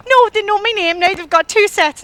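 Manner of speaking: hammed-up fear of being taken; mock panic. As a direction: fret aloud like it's the end. Convinced she'll be taken.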